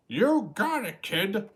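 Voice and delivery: high, loud seagull squawk; squawking cheer. A narrator's reading. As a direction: squawk it like a proud gull.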